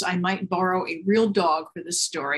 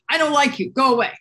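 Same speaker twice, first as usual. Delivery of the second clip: higher-pitched mock yell; storyteller voicing an angry little girl, lightly raised; understated child's outburst; mild angry yell; 5 semitones higher, 3 dB louder, faster than usual. A narrator's reading. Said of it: "and she yelled".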